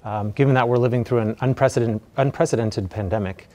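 muffled through a face mask; speaking through a mask. Real, not acted. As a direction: talk with a mask over your mouth. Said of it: "I'll be wearing a mask during today's talk".

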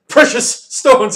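huge, high, drawn-out roar. A narrator's reading. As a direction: roar it in outrage, stretching each word. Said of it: "he roared, even louder than before".

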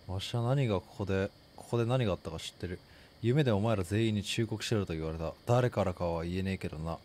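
put-on low, grim old man muttering. Voices creepy old man NPC.

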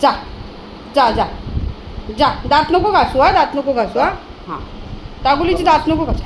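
loud playful teasing. Acted. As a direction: tease him loudly. (लाडिक चिडवणे, मोठ्याने)

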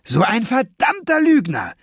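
almost crying with rage; furious near-tears shout. A narrator's reading. Boy shouting at the lying thief, near tears. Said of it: "schrie Emil und weinte fast vor Wut".

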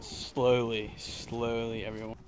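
hushed. Real, not acted. Sneaking past zombie.

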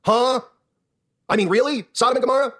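mock scorn climbing in pitch; mocking critic building. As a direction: mimic a scoffing critic, building to a shout. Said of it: "They're gonna go".

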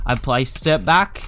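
"placed" drawn out oddly and slowly; weird "placed". Real, not acted. Player hears his own odd word "placed", slow strange pronunciation. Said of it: "why did I say place so weirdly".

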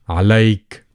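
عليك ending on K, no E after it; without the E. Shown as a demonstration. Teacher showing the masculine ending, no final E. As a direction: close عليك on the K sound. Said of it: "without the E again".

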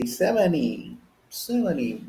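"seventy" with the T dropped, like "seveny"; American "seventy", silent T. Shown as a demonstration. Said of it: "American is seventy".

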